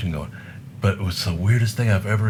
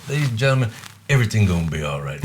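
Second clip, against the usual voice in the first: high, loud showman's call to the crowd; stage announcement; 4 semitones higher, 4 dB louder, faster than usual. Retold or imitated. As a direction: announce it like a bandleader.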